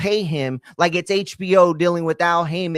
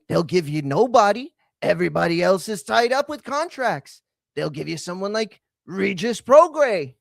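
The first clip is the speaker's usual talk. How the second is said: mock British accent; 4 semitones higher, 4 dB louder than usual. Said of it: "And then Eddie's like".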